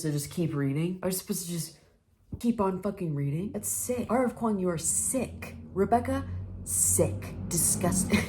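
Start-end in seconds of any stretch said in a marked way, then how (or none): 3.5-8.2 higher, clipped indignant scolding; scolding the author for the plot twist, mock outraged; mock outrage. Real, not acted. Playful disgust. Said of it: "I'm getting too angry".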